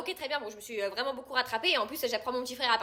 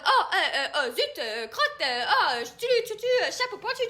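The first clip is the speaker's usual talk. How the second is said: panicked stammer; 6 semitones higher, 3 dB louder, slower than usual. Retold or imitated. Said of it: "J'étais là en mode".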